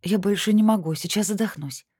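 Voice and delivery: high, breathless complaint; gasping as if the corset chokes. A narrator's reading. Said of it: "пожаловалась ему". (жалоба, задыхаясь)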